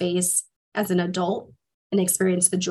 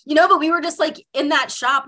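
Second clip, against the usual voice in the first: mock brushing it off; 7 semitones higher, 4 dB louder than usual. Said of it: "I'm like".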